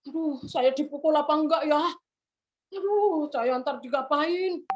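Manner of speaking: put-on anxious boy fretting to himself; very scared.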